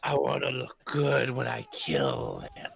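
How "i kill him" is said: dark. Real, not acted. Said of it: "sounded a little darker than I meant".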